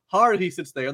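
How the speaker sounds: high, worked-up retold insistence; agitated high quote; mock freak-out. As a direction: imitate someone starting to panic. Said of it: "he's freaking out".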